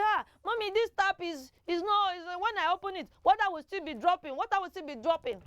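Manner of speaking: put-on high child's voice telling Mommy the tap drips; rushed, anxious child reporting a leaky tap; child complaining. Teacher mimics a child telling Mommy that the tap leaks.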